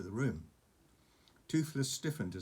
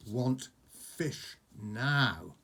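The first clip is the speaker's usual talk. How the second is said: slow, drawn-out dragon demand; demanding baby dragon; 4 dB louder, much slower than usual. Acted. A little dragon demanding fish from Hiccup, slow. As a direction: stretch each word like a greedy little dragon.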